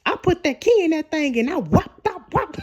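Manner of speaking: high, hammed-up comic boast; playful comedian imitation breaking into laughter; Kevin Hart. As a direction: quote the stand-up bit, pitched high and excited. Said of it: "on Kevin Hart, an album".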